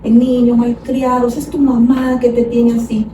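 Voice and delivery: mock scolding yell. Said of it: "lo gritas".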